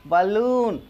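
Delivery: बलून with a short first vowel and long oo; drawn-out बलून, unstressed 'ba' then long 'loon'; correct pronunciation. Shown as a demonstration. Teacher correcting learners' बैलून, careful model pronunciation. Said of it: "बैलून नहीं होती है".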